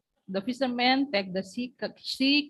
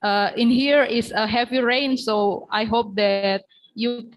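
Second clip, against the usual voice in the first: to someone hard of hearing; 4 dB louder than usual. Real, not acted. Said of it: "Could you speak louder?".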